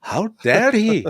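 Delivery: high-pitched mock Scottish lord; deliberately over-the-top fake Scottish brogue; bad Scottish accent. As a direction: put on a hammy Scottish accent, high and indignant. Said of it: "I can do all those accents".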